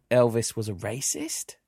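"racist" lifted high at the end, as a question; slow, turn "racist" up into a question mark; rising question inflection. Shown as a demonstration. Host trying out comedian's show title, rising inflection on "racist". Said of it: "I do that high-pitched bit at the end".

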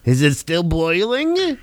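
slow, drawn-out mock Jewish accent. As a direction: parody a Jewish accent, slowly. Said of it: "Did you just become Jewish just now?".

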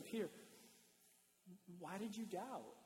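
softly asked, gentle reproach; hushed, tender question; loving, not condemning. Acted. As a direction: ask like a loving father. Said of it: "I don't read this as condemning".

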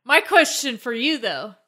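slightly winded, slow words; talking while short of breath. Real, not acted. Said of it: "Are you out of breath over there?".

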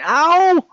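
sudden high loud yelp; yelp of pain. Acted. Peter getting hurt, sudden loud yelp of pain. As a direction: cry out at a sharp hurt.

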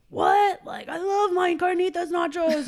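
high, loud mock amazement; hammed-up eager exclaiming; excited nacho fan. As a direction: imitate a customer who can't believe his luck. Acting out nacho-loving customer.

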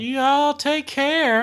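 put-on high, slow creepy old man; slow ominous raspy drawl. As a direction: drag it out creepily. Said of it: "the creepy groundskeeper".

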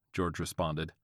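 ordinary delivery, nothing marked

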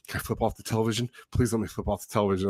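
fast, soft, urgent begging; imitated kid begging quietly and quickly; hurried pleading. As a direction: rattle off a plea under restraint. Retells son pleading to curse at screen.

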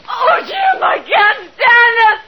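slow, shouted cry of despair; panicked cry. Acted. Wife cries out to husband during attack, panicked. Lila breaking under siege.

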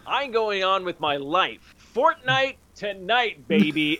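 mock triumphant quitting. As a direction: stretch it out like a gleeful farewell. Imagines Matthew gleefully quitting.

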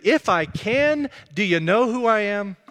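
mock-affronted rebuke; rebuking. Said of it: "Jesus is kind of rebuking him".

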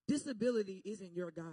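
a low, measured word from God; God speaking. Retold or imitated. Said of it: "And he said to me".

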